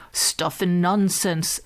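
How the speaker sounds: slow, hushed dismissive whisper; whispered scoff. A narrator's reading. Father hushes his son's silly wish, whispering. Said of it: "said his father".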